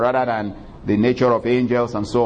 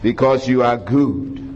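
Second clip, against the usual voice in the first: prayer. Acted. Pastor praying over the congregation, earnest prayer. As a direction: lead the church in prayer.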